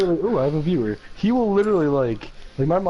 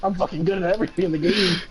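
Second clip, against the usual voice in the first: 1 mocking braggart Lewis. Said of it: "Now he's fucking".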